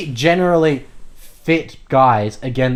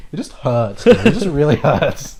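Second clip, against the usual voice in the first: mock soft whine. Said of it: "he just kinda goes soft".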